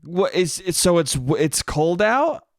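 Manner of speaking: lightly mocked confusion; questioning mom. Mom picks at dad's slip of wording, questioning. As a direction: query it haltingly, like a needling wife. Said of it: "and she goes".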